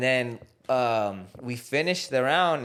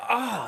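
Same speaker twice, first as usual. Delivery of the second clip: imitated cry; 9 semitones higher than usual. Kid reacting to being kicked.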